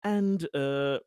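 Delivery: lightly voiced hesitant assurance; Conrad, placating. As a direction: reassure him haltingly, choosing words with care.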